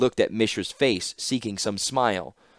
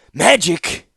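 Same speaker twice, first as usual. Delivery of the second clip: scornful; 9 semitones higher, 8 dB louder than usual. Acted. Mishra cuts her off dismissively.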